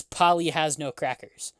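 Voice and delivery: lightly mocking bartender; a touch of mockery, understated. Bartender turning down a request for crackers, mildly mocking. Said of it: "and in a mocking tone".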